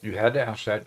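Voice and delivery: talking through a mouthful of candy; chewing while talking; mouth full. Real, not acted. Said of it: "just as I got my mouth full".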